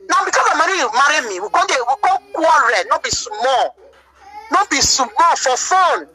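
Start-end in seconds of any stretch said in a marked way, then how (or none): 1.5-6.1 tearful slow. Real, not acted. Recounting painful marriage quarrel.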